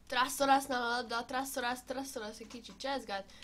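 light play-by-play commentary; sports commentary. Pretend. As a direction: call the match like a TV commentator. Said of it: "én vagyok a kommentátor".

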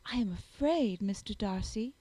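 plain reading voice

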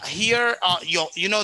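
ordinary delivery

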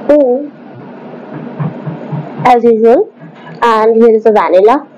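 talking while eating; muffled by food in mouth; mouth full of ice cream. Real, not acted. Seen 1: Spoon to mouth at 0.6, then chewing with closed lips.

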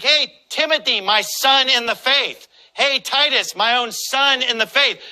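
a hint of Paul greeting his spiritual sons warmly; voicing Paul. Preacher voicing Paul calling to Timothy, lightly fond. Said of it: "Apostle Paul is like".

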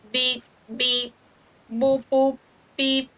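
sing-song beeping noises; mock beeping. Shown as a demonstration. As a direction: beep it out like a little machine. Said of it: "Start making beeping sounds".

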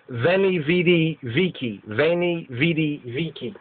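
VENI, VIDI, VICI with buzzed V sounds; V pronunciation. Shown as a demonstration. Lecturer repeating the familiar quote, V pronunciation. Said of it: "The V is a W sound".

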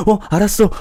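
high, loud eager yes; eager boyfriend. Retold or imitated. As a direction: agree at once like a doting boyfriend. (높고 크게 냉큼 대답하는 남자친구)

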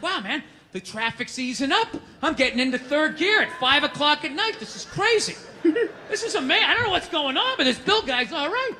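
lightly voiced amazed commuter, pitch climbing; mock wonder at how good things are; 놀란 직장인 흉내. Acting out an impressed commuter.

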